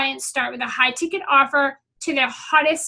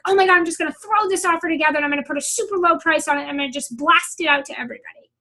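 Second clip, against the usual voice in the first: freaking out; faster than usual. Retold or imitated. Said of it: "they start freaking out and they're like".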